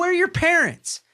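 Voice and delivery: high-pitched retold demand; indignant demand. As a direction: demand answers from misbehaving kids, voice shooting up. Demanding answers from the kids.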